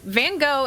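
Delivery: "Van Gogh" ending in an open oh, silent gh; American "Van Gogh", rhyming with go; American pronunciation. Shown as a demonstration. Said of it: "is more the American pronunciation".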